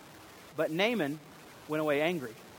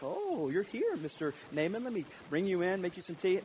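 fawning host; 4 dB quieter than usual. Retold or imitated. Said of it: "come out to him to the door like".

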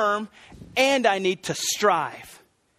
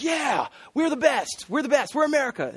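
mock boastful cheer; 7 semitones higher than usual. Preacher imitating Americans bragging about medals, hammed-up cheer. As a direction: gloat like a crowd chanting for its team.

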